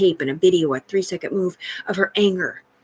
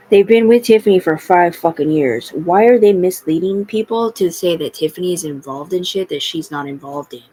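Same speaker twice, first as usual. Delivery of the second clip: louder, real exasperated yelling; angry outburst; 8 dB louder than usual. Real, not acted. Ranting to camera about people misleading others, loud and angry. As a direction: let the frustration burst out.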